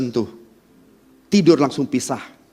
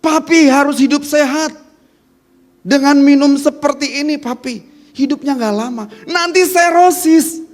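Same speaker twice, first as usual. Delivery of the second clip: earnest reminder; 8 semitones higher than usual. Shown as a demonstration.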